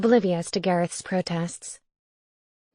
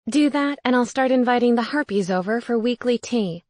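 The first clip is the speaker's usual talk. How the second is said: ghost roommate voice; 3 semitones higher, 4 dB louder than usual. Acted. Ghost Gareth's voice, louder.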